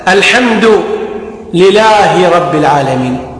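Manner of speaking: single light L in لله; missing shadda. Shown as a demonstration. Teacher showing a faulty recitation, missing shadda on لله. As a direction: drop the doubled L in لله. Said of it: "لم تصح الصلاة".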